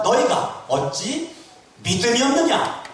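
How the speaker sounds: loud, high-pitched scolding question; Jesus rebuking. Acted. Jesus to disciples lacking faith, loudly rebuking. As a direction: raise the voice into a sharp reproach. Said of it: "예수님이 책망하는 거예요".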